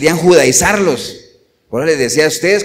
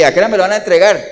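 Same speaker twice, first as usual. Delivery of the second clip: rushed mock question; 2 semitones higher, 3 dB louder, faster than usual. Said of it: "Satanás ahí esperando".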